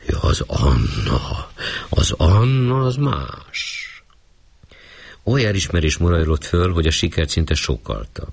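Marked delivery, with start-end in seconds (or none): 0.1-3.9 smug hostess. Acted. Proud hostess praises her maid.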